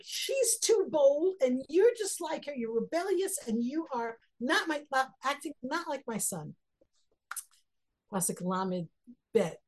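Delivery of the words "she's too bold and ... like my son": angry scolding. Retold or imitated. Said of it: "And so he's like".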